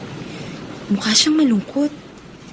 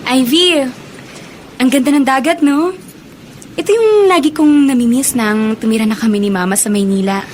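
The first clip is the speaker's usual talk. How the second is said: louder, delighted call to friend; loud happy wonder; excited at the sea; 4 dB louder than usual. Acted. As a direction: marvel at the beach out loud.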